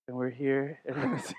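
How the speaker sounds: lightly voiced radio host intro; a hint of a laid-back DJ; Enrique impression. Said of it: "do my best Enrique in front of Enrique".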